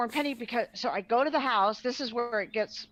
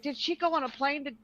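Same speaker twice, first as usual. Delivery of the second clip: worried rush; 5 semitones higher, faster than usual. Retold or imitated. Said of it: "I'm like".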